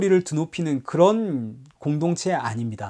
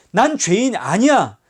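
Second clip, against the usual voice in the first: slow defiant denial; 4 semitones higher, 4 dB louder, slower than usual. Retold or imitated. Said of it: "실제로는".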